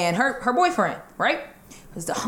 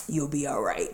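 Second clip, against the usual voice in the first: put-on dismissive boyfriend; 7 semitones lower, 8 dB quieter than usual. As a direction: brush her off, low and quiet. Boyfriend dismissing her on phone.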